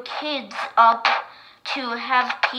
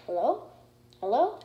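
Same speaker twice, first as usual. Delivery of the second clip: megaphone test; 4 dB quieter than usual. Acted. Testing the megaphone.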